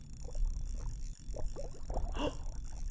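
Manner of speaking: quiet, voiceless gasp; sudden hushed intake of breath; startled gasp. Real, not acted. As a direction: catch your breath in suspense. Listening, then a bite.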